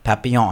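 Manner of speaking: Papillon said the French way; French pronunciation. Real, not acted. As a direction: let Papillon end on a French nasal vowel, n unsounded. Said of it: "I have to say it the French way".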